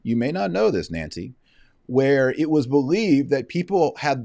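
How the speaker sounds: high, loud mocking retort; sarcastic. Real, not acted. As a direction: talk down to her with mock surprise.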